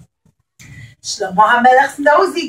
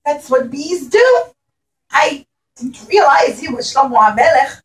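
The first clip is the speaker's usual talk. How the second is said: apologetic bee; 3 semitones higher, 3 dB louder than usual. Acted. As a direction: plead sorry like a small bee. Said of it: "the bee said".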